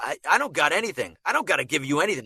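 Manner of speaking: "got" and "gotta" with a short, everyday vowel; native Boston vowel. Shown as a demonstration. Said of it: "We pronounce it got".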